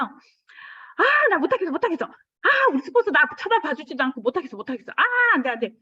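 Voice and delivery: put-on high, loud childish whine; hammed-up whiny wail; whining. Retelling her own whining.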